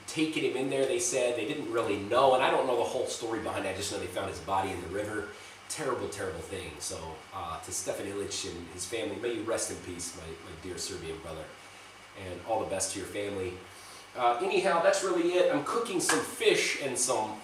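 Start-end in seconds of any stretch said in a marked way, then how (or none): 3.9-13.5 low, soft and subdued; solemn condolence. Real, not acted. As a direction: offer quiet condolences to a grieving family. Condolence to a dead boy's family.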